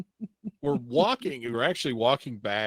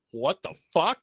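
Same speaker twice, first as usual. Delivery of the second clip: high, loud incredulous outburst; shocked disbelief; 8 semitones higher, 7 dB louder than usual. Retold or imitated. Teen hearing of the arrest warrant, shocked. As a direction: react in stunned disbelief, retold. Reacting to being told of warrant.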